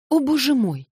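high, loud rapturous exclamation; cry of delight. A narrator's reading. Alyosha, overjoyed at Natasha's forgiveness, cries out high and loud. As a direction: burst out in pure joy. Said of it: "вскрикнул он в восторге".

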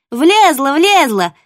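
high, loud joyful yapping; yappy little dog. Acted. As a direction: bounce and yap with glee. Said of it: "радостно запрыгали Чупа и Копа".

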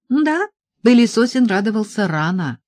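plain reading voice

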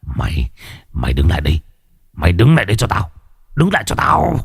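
grind it out, then snap upward; through gritted teeth. Acted. Ngọc chasing the woman, gritted-teeth threat. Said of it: "Lão nghiến răng".

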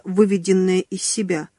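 usual speaking voice

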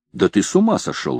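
ordinary delivery, nothing marked

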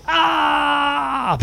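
long high falling scream. Acted. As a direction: yell all the way down. Man falling from tenth floor.

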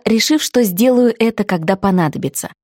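plain reading voice

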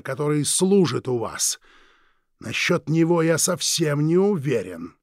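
slow, silky, threatening drawl; menacing villain. Acted. Villain Krieg menacing the Forbes couple, slow and silky. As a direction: savour each word like a veiled threat.

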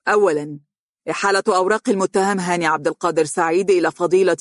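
mild courtroom pronouncement; judge's verdict. Acted. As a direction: read the ruling like a stern court judge. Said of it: "ينطق بالحكم قائلا".

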